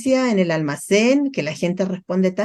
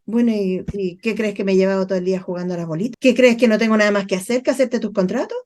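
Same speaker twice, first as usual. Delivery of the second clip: resentful coworker; faster than usual. Retold or imitated. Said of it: "la gente responde mal en los trabajos".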